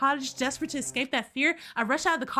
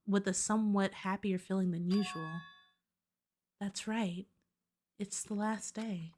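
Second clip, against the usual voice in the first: low, hushed narrator reading; game narration voice; 5 semitones lower than usual. Acted. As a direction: read it like an uneasy inner monologue. Reads Hajime's inner monologue.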